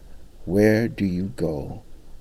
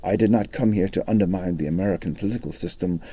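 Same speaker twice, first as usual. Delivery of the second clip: academic answer. Retold or imitated. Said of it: "answered in an academic fashion".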